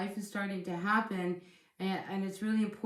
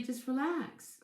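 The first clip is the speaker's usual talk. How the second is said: soothing; 5 semitones higher, slower than usual. Real, not acted. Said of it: "I just wanted to say".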